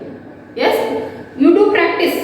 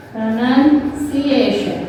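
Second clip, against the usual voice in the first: slow model reading; 2 semitones lower, slower than usual. Shown as a demonstration. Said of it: "Read these love words aloud".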